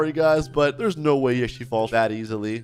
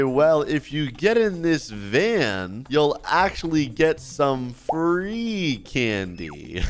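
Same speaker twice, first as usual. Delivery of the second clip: slow, stretched-out mock lure; lightly played candy-van stranger; luring stranger; much slower than usual. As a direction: draw out the offer like a creepy stranger. Playing stranger luring a kid.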